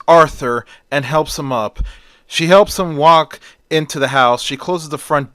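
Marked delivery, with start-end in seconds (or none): 0.1-0.7 a louder cry of his name; screams. Acted. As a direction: call out his name in shock. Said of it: "Eve screams".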